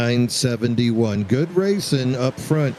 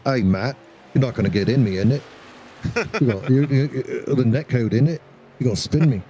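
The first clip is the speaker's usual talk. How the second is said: mock British accent; faster than usual. Co-host jokingly voices a driver talking to Matt, in a mock British accent. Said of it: "that's my best British".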